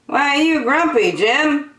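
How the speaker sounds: high, fast curious question; a nosy lemur quizzing him; chirpy lemur. Acted. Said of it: "asked Lemur".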